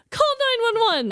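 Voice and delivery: high-pitched mock panic; retold alarm. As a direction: call for help, pitch leaping up. Acts out urgent call for help.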